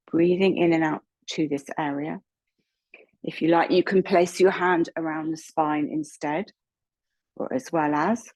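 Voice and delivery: unhurried yoga teacher guidance, pausing between instructions; measured meditation-leading voice with long pauses; guided meditation. Real, not acted. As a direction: guide them gently from one breath to the next. Leads a chakra breathing meditation.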